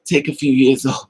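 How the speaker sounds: breaks into a laugh midway; chuckling mid-sentence; laughing advice. Real, not acted.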